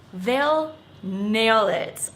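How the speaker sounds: "They'll nail it" said slowly; deliberate slow quote. Retold or imitated. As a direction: spell it out slowly. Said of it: "I love this phrase".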